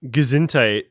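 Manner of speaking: high, goofy imitation of Madam Web; mock ditzy psychic. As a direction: act out a clueless psychic, silly. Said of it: "She's like".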